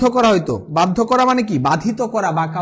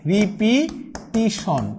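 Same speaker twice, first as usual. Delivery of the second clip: slow model word; much slower than usual. Shown as a demonstration. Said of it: "বানানটা হলো".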